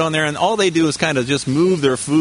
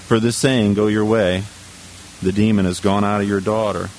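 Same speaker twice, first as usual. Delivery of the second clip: low, measured Bible reading; scripture reading; 5 semitones lower than usual. Real, not acted. Preacher reading the verse to the congregation, low scripture reading. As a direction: read the verse out evenly in a lower voice.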